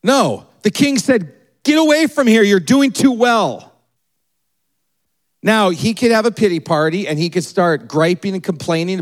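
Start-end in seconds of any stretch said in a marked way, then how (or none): 1.6-3.7 mock royal order. Pastor acting the king ordering Isaac away, mildly raised.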